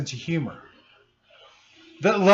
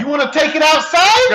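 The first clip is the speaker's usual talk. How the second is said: higher Brooklyn tough-guy taunt; Brooklyn accent; 7 semitones higher, 4 dB louder than usual. Retold or imitated. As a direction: dare him outside, Brooklyn style. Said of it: "I was using a Brooklyn accent".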